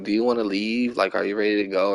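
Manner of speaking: low, softly retold question; hushed question. Retells her asking during the movie.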